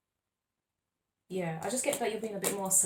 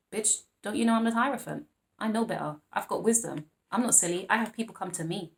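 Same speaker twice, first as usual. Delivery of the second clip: sassy voice. Pretend. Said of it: "why am I talking like this".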